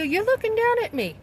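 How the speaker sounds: telling the caseworker off, voice climbing in indignation; indignant accusation. Retold or imitated. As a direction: pitch shoots high and falls on looking. Retold confrontation with caseworker.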